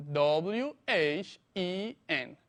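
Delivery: slow spelling for dictation. Shown as a demonstration. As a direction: give each letter its own beat. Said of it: "se escribe".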